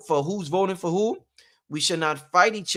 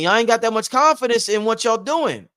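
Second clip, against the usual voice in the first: higher and louder correction, y'all in place of Niggas; corrected restatement; 5 semitones higher, 5 dB louder than usual. Real, not acted. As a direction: restate it clearly, swapping in y'all. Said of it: "The, uh, confident".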